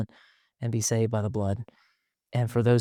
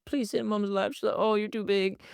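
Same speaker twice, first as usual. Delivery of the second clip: higher, cooing mom voice; dad voicing his wife cooing at their teen, higher; mother cooing; 9 semitones higher than usual. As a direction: coo like a doting mom. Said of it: "She'll pull our seventeen".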